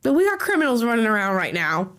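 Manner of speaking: hoarse, slightly cracking voice; cracked sick voice. Real, not acted. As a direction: talk through a sick, raspy throat. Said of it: "Amala's slightly cracked voice is nice to hear".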